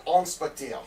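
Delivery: drawn-out French pronunciation; French accent. Shown as a demonstration. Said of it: "say it with a French accent".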